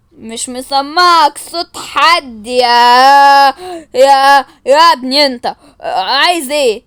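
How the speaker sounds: loud, very slow drawn-out threat; mock gangster stretching every word; changed kidnapper voice. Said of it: "أنا بعرف أغير صوتي قوي". (صوت خاطف مستعار، عالي وبطيء جدا)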